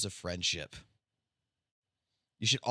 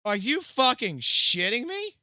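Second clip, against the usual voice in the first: stunned disbelief; 11 semitones higher, 7 dB louder, slower than usual. Real, not acted. Shocked by threat message.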